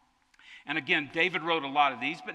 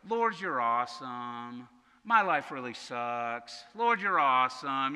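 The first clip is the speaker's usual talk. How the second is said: mock psalm lament; slower than usual. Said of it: "they kinda go like this".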